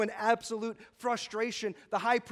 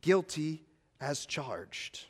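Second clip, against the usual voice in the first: slow solemn admission; 4 semitones lower, much slower than usual. Retold or imitated. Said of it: "he says to the high priest".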